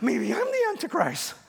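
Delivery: put-on a hushed, frightened child's worry; childlike dread. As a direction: voice the boy's sudden dread, lightly. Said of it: "and I said".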